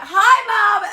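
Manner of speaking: high, loud mock-tipsy holler; loud drunken greeting. Coming home drunk to mum, a loud high holler. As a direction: call out far too cheerily, acting drunk.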